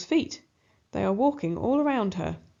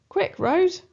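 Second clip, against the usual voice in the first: high, loud urging shout; urgent cheer; 9 semitones higher, 5 dB louder than usual. A narrator's reading. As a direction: spur her on in the chase. Narrator urges Rose in chase.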